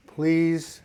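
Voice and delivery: a touch of begging; pleading. Real, not acted. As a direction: make a drawn-out little plea. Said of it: "I know I sound like I'm begging".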